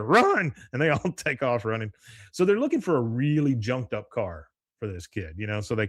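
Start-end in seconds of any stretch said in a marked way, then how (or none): 0.0-0.5 high pretend cry to flee; mock alarmed shout. Boys fleeing the old lady, mock alarmed call. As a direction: call it out high, imitating panic. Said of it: "you finally hear".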